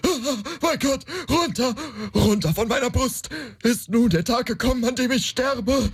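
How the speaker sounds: erschrocken, höher, atemlos stammelnd; in Todesangst aufschreien; panische Angst. Acted. Wacht panisch unter Dämon auf. (Heinrich wacht auf und sieht den Dämon: panisch)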